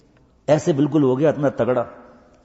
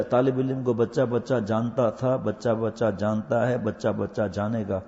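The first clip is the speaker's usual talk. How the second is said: slow emphatic; 4 semitones lower, 3 dB quieter, slower than usual. Acted. Emphatic slow rising testimony.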